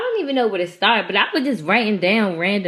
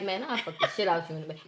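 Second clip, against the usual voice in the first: fast, much softer seductive murmur; whisper; 11 dB quieter, faster than usual. Retold or imitated. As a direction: breathe it quietly into an ear. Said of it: "whisper in my ear and be like".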